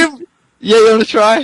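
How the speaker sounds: high giggly voice through laughter; high, breathless with laughter; laughing. Real, not acted. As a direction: still cracking up as he speaks. Laughing, handing over the reading.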